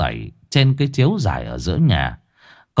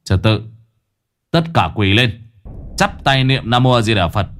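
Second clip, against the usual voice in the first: stern command, lightly voiced; stern near-shout. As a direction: order everyone to kneel, firmly. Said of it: "nghiêm giọng quay ra nói như quát".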